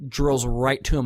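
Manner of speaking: ordinary talk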